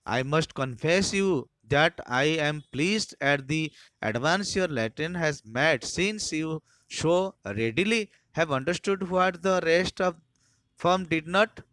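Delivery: loud, slow, mock-praising schoolmaster; sarcastic teacher. Harris mocking Taplow before the form, loud and sarcastic. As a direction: hand out the praise with a sneer.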